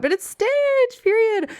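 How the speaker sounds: loud high slow emphatic verdict; emphatic declaration. Real, not acted. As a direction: declare it the clear winner. Declaring favorite plush.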